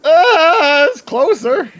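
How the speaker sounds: high frantic cry; panicked. Acted. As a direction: panic as you sink. Character being pulled under.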